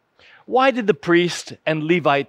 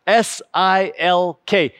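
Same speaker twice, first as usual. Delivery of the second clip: repeating louder; slower than usual. Shown as a demonstration.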